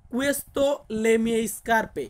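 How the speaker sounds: "Questo le mie scarpe" drawn out, syllable by syllable; very slow model sentence. Shown as a demonstration. Teacher dictating the Italian sentence slowly to students. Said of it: "আমরা একই বলবো".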